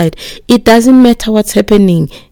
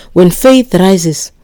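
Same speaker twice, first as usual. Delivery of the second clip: very slow; much slower than usual. Acted. Preacher slows key phrase.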